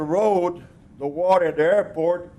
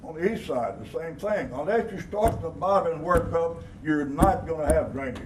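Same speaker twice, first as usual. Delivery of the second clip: stern. Real, not acted. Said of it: "I sounded pretty firm there, didn't I?".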